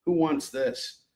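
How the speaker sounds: yawning through the words, slow. Real, not acted. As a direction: drag it out mid-yawn. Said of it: "I'm yawning just thinking about it".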